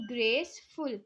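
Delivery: "ग्रेसफुल" in two halves, ग्रेस then फुल; split into syllables. Shown as a demonstration. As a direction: break "ग्रेसफुल" into two clear beats. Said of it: "half में और pronunciation है".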